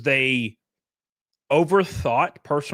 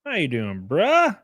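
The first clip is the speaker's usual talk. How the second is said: playful greeting; 3 semitones higher, slower than usual. Shown as a demonstration. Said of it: "repeated greeting variants".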